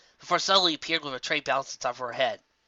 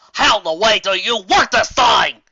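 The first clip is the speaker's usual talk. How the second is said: louder, slow, exasperated grumble; grumbling; 8 semitones higher, 11 dB louder than usual. Acted. Applejack grumbles at the headset, louder and slow. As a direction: grumble at the gadget. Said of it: "Applejack grumbled".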